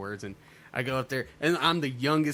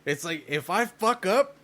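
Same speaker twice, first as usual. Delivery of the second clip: high, slow, tipsy drawl; drunk comedian; 9 semitones higher, 4 dB louder, slower than usual. Retold or imitated. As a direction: play the wasted comic on stage. Comic quoting the drunk comedian.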